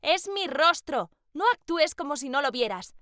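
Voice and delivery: angry yell. Acted. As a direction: snap back at him, hurt and angry. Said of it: "le grité enojada".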